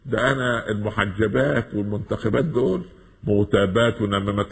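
mock protesting girl. Preacher imitates a girl refusing the hijab, high and indignant. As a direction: whine your refusal like a girl dodging the hijab. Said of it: "تقول".

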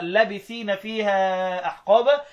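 short first a in لابثين, slow recitation; short vowel, no madd. Shown as a demonstration. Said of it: "بالقصر يعني حذف المد".

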